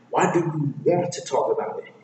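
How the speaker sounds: lightly voiced grumpy retort; Shrek. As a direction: throw the question back, stressing "want". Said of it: "And Shrek replies back".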